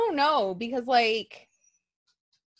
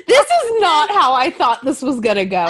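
laughing; 4 semitones higher, 6 dB louder than usual. Real, not acted. Laughing at awkward moment.

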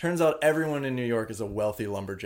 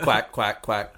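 duck quack; 2 semitones lower, slower than usual. Pretend. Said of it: "Whenever I quack".

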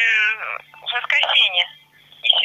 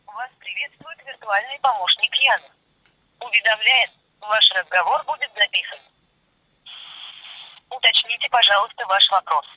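phone menu voice. Acted. Virtual assistant Yana answers call.

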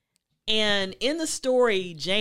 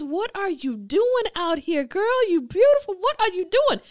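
flirting suitor; 12 semitones higher, 7 dB louder than usual. Retold or imitated. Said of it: "He says".

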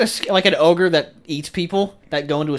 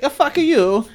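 much higher, mock indignant snap; mock angry retort; 12 semitones higher, 4 dB louder, slower than usual. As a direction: fire it back in hammed-up offense. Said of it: "the Italian guy's like".

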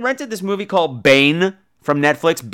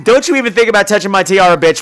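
diva voice; 4 semitones higher, 4 dB louder, faster than usual. Retold or imitated. Voicing a diva's threat.

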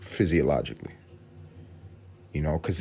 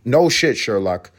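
sarcastic; 4 semitones higher, 4 dB louder, slower than usual. Real, not acted. Sarcastic retort to himself.

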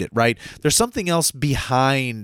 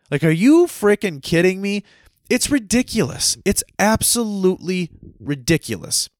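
exasperated outburst; 6 semitones higher than usual. Real, not acted. Ranting about government spending.

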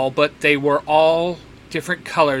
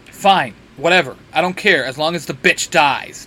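snapping; 3 dB louder than usual. Acted. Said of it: "Dean snaps".

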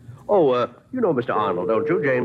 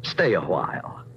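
commanding; much slower than usual. Acted. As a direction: tell him to stay like a master to a dog. Host orders guest to stay.

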